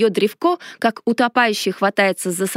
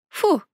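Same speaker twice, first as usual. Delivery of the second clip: wincing disgust; 6 semitones higher than usual. A narrator's reading. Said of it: "поморщилась я".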